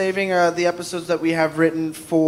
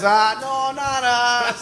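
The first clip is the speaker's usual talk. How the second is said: higher, light mock Midwestern accent; bashful Midwestern accent, played lightly; fake Midwestern accent; 5 semitones higher, much slower than usual. Guest voicing humble Boise locals in a light fake Midwestern accent. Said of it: "fake Midwestern accent for that".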